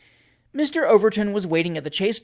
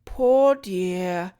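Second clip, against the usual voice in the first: pitying; 2 semitones higher than usual. Acted. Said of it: "said Missus Williamson again".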